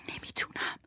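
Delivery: a faint, breathless refusal; frightened whisper. Acted. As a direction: barely get the words out, paralysed by fear. Frozen with fear, refusing.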